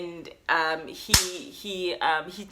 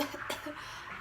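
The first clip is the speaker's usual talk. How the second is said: soft cough; 14 dB quieter than usual. Shown as a demonstration. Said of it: "I'll be like".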